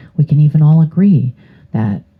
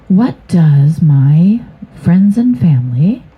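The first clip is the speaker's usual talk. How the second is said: whisper; 3 semitones higher, 3 dB louder, slower than usual. Real, not acted.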